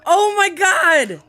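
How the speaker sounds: high, slow laughing exclamation; squealing with laughter. Real, not acted. Laughing at the comparison.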